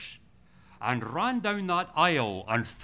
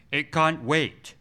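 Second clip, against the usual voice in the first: loud, slow, insistent; pleading loudly, drawn out; urgent retold plea; 2 semitones higher, 9 dB louder, slower than usual. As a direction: press it like it cannot wait one more minute. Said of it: "that's how urgent salvation is".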